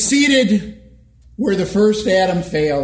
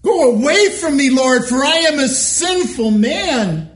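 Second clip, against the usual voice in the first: higher, pleading cry to the Lord; pleading exclamation; 6 semitones higher than usual. Acted. Peter begging the Lord, higher pleading cry. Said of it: "Peter exclaimed".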